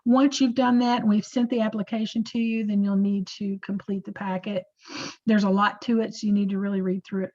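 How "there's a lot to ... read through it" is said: holding back a sneeze. Real, not acted. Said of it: "I'm trying not to sneeze".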